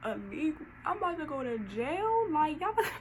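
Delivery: high, rising panicked voice; hammed-up scared pleading; mock panic. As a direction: freak out in a high squeal. Panicking about jail.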